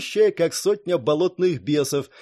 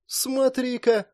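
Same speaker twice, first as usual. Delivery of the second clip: frowning remark; 10 semitones higher, much slower than usual. A narrator's reading. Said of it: "нахмурился Джерри".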